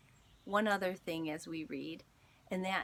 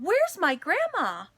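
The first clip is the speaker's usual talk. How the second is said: much higher, loud cry; child's scared yell; 10 semitones higher, 12 dB louder than usual. Acted. Child yelling for grandma at the house fire, scared shout. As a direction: shout it out, desperate to find her. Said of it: "I yelled".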